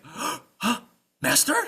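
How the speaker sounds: high, loud questioning squire; startled squire. Acted. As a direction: call out for your master in alarm. Startled squire hears laughter.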